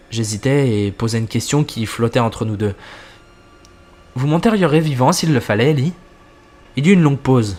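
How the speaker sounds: narration posée, plus grave dans les apartés du narrateur; lecture de récit. A narrator's reading. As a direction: lire l'histoire en jouant sobrement les dialogues. Lit une histoire à voix haute. (narration de fiction à voix haute)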